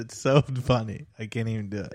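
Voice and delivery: breaking up with laughter mid-sentence; words squeezed out through giggles; laughing. Real, not acted. Laughing too hard to imitate.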